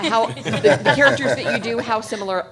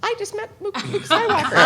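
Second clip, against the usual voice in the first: much higher, giddy excitement with a laugh; starstruck thought; 14 semitones higher, 6 dB louder than usual. Retold or imitated. Retelling meeting Mark Hamill, higher and giddy. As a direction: gush like a starstruck fan. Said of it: "and I'm thinking".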